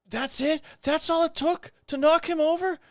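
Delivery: sarcastic high-pitched disbelief; incredulous. Real, not acted. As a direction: scoff at how little it took. Mocking protester knocked over on video.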